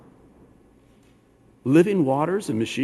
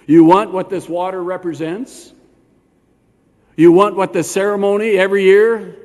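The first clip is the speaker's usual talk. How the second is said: louder, pointed challenge, rising at the end; challenging question; 3 semitones higher, 5 dB louder than usual. Acted. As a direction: press "You" like a direct challenge. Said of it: "Notice Yeshua doesn't say".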